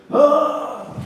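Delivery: short, high-pitched "ah" of exasperation; high exasperated cry. Retold or imitated. Preacher showing how he used to let off, high cry. Demonstrating an impatient outburst.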